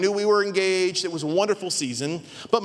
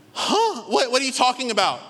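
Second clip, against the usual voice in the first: groggy confusion; 5 semitones higher than usual. Retold or imitated. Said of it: "I'm like".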